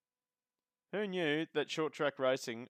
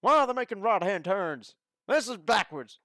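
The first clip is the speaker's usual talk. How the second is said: much higher, loud hammed-up redneck hillbilly accent; redneck commentator; 8 semitones higher, 6 dB louder than usual. Streamer commentating the race for chat in a hammed-up redneck hillbilly accent. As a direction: call the race like an excited hillbilly. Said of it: "comment one race with a U S A hillbilly redneck accent".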